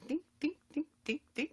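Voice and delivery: high, soft little dings; ping them lightly, nearly whispered; tiny twangs. Retold or imitated. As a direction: delicate comic sound effect. Imitates tugging the hair again.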